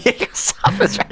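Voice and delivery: breathy whisper, high and soft; whispered echo of the call. Retold or imitated. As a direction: whisper the call back, amused. Echoing the dinner call.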